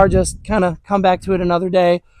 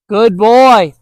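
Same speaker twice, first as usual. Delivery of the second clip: loud praise; 5 dB louder than usual. Real, not acted. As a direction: reward him out loud the moment he turns back. Praising returning dog.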